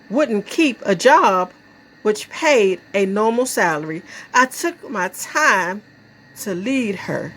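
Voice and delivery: measured poem reading with pauses; lightly performed verse, line by line; poetry recitation. Acted. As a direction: recite it deliberately, letting key words swing.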